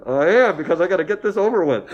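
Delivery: mock determined reply. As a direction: play his own blunt answer, hammed up. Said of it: "I said".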